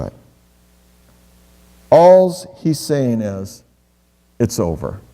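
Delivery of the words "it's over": gentle hush. Acted. God's message to the disciplined.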